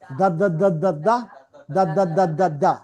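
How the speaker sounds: rapid rhythmic দা syllables with voice; voiced th drill. Shown as a demonstration. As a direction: drill দা with the tongue lightly between the teeth. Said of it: "voice sound দিতে". (দাঁতের মাঝে জিভ, আওয়াজ দিয়ে দা, দা)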